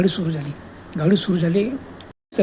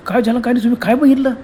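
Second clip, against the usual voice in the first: higher, worried questions; anxious wife; 5 semitones higher, 5 dB louder, faster than usual. Acted. Wife anxiously questioning her trembling husband, higher pitch. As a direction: press him for what he saw.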